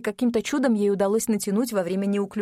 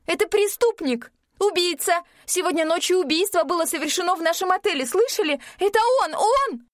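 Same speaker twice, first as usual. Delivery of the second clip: yelling; 10 semitones higher than usual. A narrator's reading. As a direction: shout it down, desperate. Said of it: "орала Ирина".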